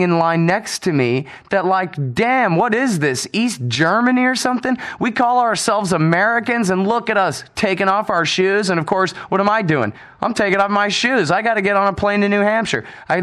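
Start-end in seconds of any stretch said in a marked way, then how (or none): 2.1-8.7 raised, slowed exasperated jab at fellow travelers; retold indignant remark. To Americans in the TSA line, exasperated mock outrage. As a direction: scoff at the shoe rule, half-acted. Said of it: "I just remarked to the Americans".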